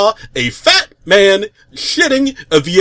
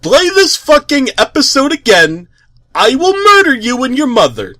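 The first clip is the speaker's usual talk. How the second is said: loud, much higher, ranting menace; menacing threat; 7 semitones higher, 4 dB louder than usual. A narrator's reading. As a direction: read the evil note as a raving villain. Threatening message read out.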